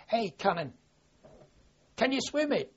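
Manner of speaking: a mild mock shout to a mate in the sea; retold shout. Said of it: "had shouted to me".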